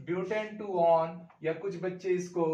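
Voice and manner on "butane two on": slow dictation. Shown as a demonstration. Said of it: "तो this is".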